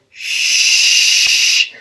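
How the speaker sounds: a sharp whispered shush. Retold or imitated. Santa shushing the girl on his lap. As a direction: hush the kid quickly.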